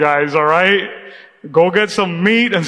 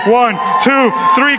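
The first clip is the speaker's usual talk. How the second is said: louder, rising count-in; counting to a shout; 3 semitones higher, 3 dB louder than usual. Real, not acted. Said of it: "I'm gonna count to three".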